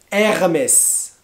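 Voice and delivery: "Hermès" with silent h, final s sounded; correct Hermès. Shown as a demonstration. Teacher modelling "Hermès" for learners. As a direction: say "Hermès" the French way, s at the end.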